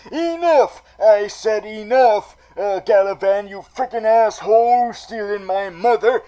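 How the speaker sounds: loud, high furious yell; angry shout. Retold or imitated. Penguin shouting at Galavan over his stolen mother, angry and loud. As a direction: roar at Galavan to give back his mother. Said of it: "they've had enough".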